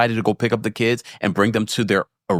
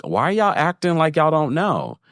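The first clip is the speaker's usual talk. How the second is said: higher-pitched mock incredulity; knowing inflection; 5 semitones higher than usual. Babysitter's daughter to the callers, knowingly incredulous. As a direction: imitate the daughter's pointed question, pitched up. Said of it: "just the inflections of the voice".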